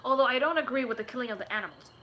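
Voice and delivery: quick, mildly indignant objection; angry vegan. Real, not acted. Streamer objects to killing animals, in a quick, mildly angry-vegan manner. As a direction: rattle off a disapproving aside. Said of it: "That was so angry vegan of me".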